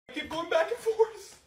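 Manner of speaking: high, squeaky exasperated whine; frustrated squeal. Acted. Daughter whining at being sent back and forth.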